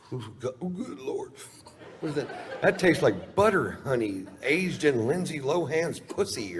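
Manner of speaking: high, delighted gasping praise; rapturous savoring. Retold or imitated. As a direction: swoon over the taste, laughing.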